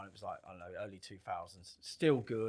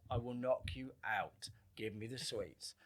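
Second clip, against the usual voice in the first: slow, softer menacing warning; quiet threat; 7 dB quieter, slower than usual. Retold or imitated. Quiet threat after shouting.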